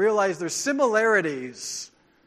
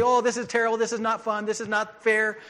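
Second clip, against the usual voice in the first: slightly raised griping voice; mock whining; 3 semitones higher than usual. Preacher imitating grumbling believers who gripe about obeying, mock whining. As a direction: imitate a mild whiny complaint. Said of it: "gripe and complain and whine and say".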